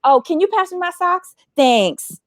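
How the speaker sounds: breezy imitation of dropping news in passing; nonchalant. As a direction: toss it off as if it were nothing. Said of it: "he said it so nonchalantly".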